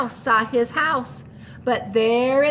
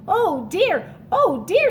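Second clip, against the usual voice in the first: fretting; 4 semitones higher than usual. Acted. Mouse worried in the snow.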